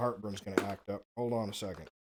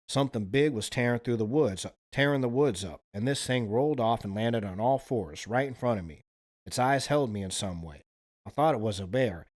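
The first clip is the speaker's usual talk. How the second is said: put-on Alabama accent. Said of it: "it's that accent".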